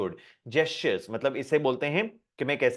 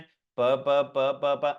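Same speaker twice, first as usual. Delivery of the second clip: too slow; much slower than usual. Shown as a demonstration. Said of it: "ऐसे slow नहीं बोलना है".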